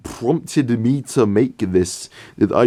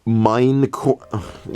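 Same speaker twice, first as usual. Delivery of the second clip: "Minecraft" dragged out very slowly and falling flat; disbelieving repeat; 2 semitones higher, much slower than usual. Shown as a demonstration. Reviewer repeating the silly place name, slow and deadpan. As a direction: stretch "Minecraft" out in weary disbelief. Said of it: "that terrible location name".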